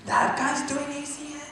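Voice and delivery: high, soft disbelieving gasp; mock surprise. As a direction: sound stunned at the news. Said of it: "you guys be like".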